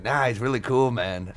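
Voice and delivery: badly imitated Australian accent; terrible Australian accent. Retelling what Jim said in the green room, in a bad Australian accent. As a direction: attempt a loose, casual Australian accent. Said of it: "that was a terrible Australian accent".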